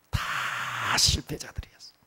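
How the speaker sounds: hushed, breathy whisper; a sudden secret whisper. Real, not acted. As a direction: drop to a whisper for emphasis. Failures of God's great people.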